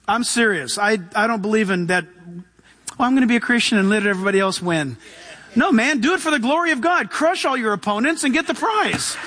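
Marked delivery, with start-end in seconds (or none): 3.0-5.0 quick, lower mocking quote; mock meekness. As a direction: toss it off as a feeble excuse. Mocks a passive Christian's attitude.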